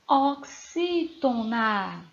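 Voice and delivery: "oxítona" very slow, in separate syllables. Shown as a demonstration. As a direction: spell out "oxítona" slowly by sound, like dictation. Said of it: "a sua classificação será".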